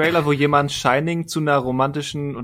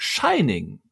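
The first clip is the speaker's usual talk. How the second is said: horror trailer voice; 3 semitones lower than usual. Retold or imitated. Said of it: "dieser klassische Trailersprecher in einem ähnlichen Tonfall".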